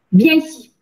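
loud, high-pitched curt shout; shouted order. A narrator's reading. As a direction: shout the child over to you. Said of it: "cria Le Gourdin". (crier un ordre)

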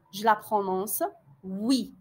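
usual speaking voice

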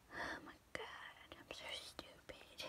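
slow whispered self-scolding; hushed, drawn-out whisper under the breath; self-reproachful whisper. Real, not acted. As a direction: whisper it slowly to yourself, exasperated. Muttering self-reproach to herself.

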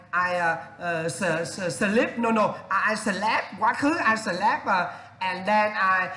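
halting student English; slow student reply with restarts; student answer. Retold or imitated. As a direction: stumble through like a student. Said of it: "Và em nói".

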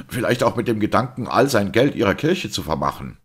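mocking yell at the priest; searing scorn. A narrator's reading. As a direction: spit the accusation out scornfully. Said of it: "schrie er mit sengendem Hohne".

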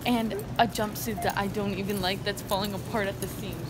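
angry rant. Real, not acted. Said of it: "Someone's a little angry".

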